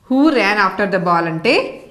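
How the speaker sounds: slow, careful reading. Shown as a demonstration. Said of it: "slowly models question and answer".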